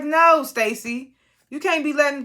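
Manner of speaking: urgent high protest to Stacy; pleading protest. Retold or imitated. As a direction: beg her not to back down. Urging Stacy to fight back.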